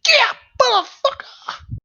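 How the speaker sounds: slow, soaring whoop of glee; stretched victory yell. Acted. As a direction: let the triumph ring out slowly. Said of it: "be like".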